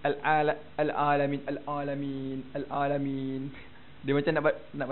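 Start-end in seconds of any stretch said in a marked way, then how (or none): 0.1-3.4 a lazy, underdone "Al-Alamin"; lazy Ain. Shown as a demonstration. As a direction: say "Al-Alamin" lazily, hardly forming the Ain. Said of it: "malas-malas sikit kan".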